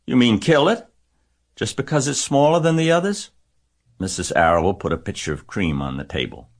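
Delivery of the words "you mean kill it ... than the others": put-on high, loud upset girl; girl shrieking at her mother over the runt. A narrator's reading. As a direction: shriek it out in disbelief. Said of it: "shrieked Fern".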